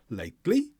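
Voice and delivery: "lately" with the second syllable lifted; rising question tune on "lately"; stress on second syllable. Shown as a demonstration. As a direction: turn "lately" upward on "-ly", as a question. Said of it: "emphasis is on the second syllable".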